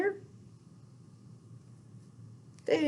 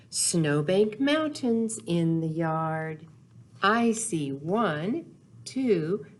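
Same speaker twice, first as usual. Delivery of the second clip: unhurried storybook read-aloud, lingering on the rhymes; reading to children. Acted. Teacher reading Snow Days aloud to little kids, gentle storytelling. Reads picture book to children.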